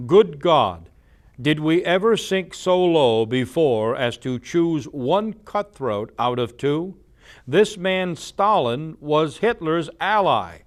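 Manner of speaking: loud, declaiming senator's outcry; trumpeting. Retold or imitated. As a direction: boom it out like a Senate speech. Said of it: "trumpeted in the United States Senate".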